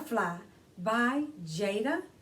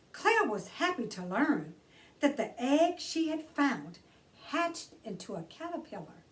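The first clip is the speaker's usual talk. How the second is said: put-on bright read-aloud for children; gentle children's book narration; storybook reading; 3 semitones higher than usual. A narrator's reading. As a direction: read it like story time for kids. Reads picture book aloud.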